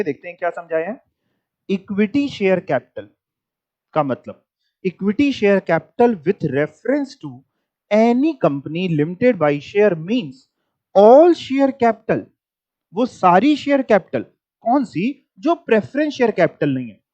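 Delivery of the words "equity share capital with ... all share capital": slow, deliberate dictation of a definition; slow textbook reading. Shown as a demonstration. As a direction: read it out word by word for notes. Reads textbook definition aloud.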